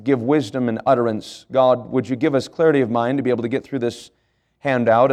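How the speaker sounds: earnest spoken prayer to God; a steady pastor's prayer. Acted. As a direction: pray it sincerely before the lesson. Pastor prays aloud for congregation.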